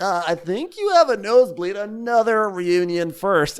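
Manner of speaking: high, dry host voice, slowing at the end; deadpan put-on announcer; imitating Andy. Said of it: "So Andy's like".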